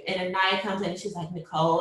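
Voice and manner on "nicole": imitating a calm midwife. Midwife settling screaming mother by name, imitated calm tone. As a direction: say the name evenly, unhurried in feeling. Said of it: "in this very calm tone".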